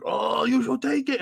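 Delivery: high, drawn-out urging; retold bystander. Bystander egging on the customer, high drawn-out voice. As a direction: pitch it up and stretch it.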